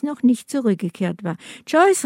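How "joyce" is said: lightly called, pitched well up; calling out. A narrator's reading. Harry calls to Joyce, who has not returned, calling out. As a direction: call the name high without shouting. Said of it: "rief er".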